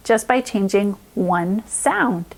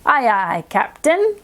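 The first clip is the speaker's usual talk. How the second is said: rising bright "Captain"; cheery sailor call; slower than usual. Shown as a demonstration. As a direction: call it out like a happy deckhand. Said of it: "if it's in the word".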